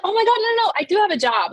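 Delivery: high, loud burst of self-correction; retold flustered realisation. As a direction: blurt it out loud, reliving the sudden realisation. Retells sudden panicked realisation.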